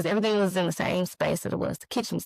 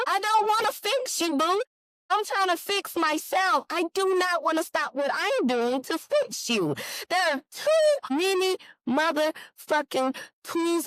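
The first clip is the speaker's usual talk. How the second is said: higher, heated refusal; getting mad; 10 semitones higher than usual. Real, not acted. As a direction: let the irritation rise on every word. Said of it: "I'm getting mad".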